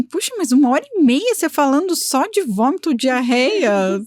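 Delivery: mildly incredulous imagined objection; incredulous client. Retold or imitated. Client doubting the long gastro consultation, mock incredulous. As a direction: question it with swinging, mock disbelief. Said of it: "E você pensa assim".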